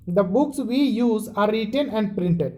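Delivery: very slow, deliberate reading, each word spaced; slow textbook reading. Shown as a demonstration. Teacher reading the textbook line to students, very slow. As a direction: read it out so students can follow every word.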